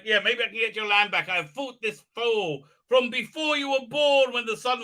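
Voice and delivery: hammed-up epic speech; mock-heroic. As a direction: proclaim it like a grand old warrior. Mocking the heroine's grand speech.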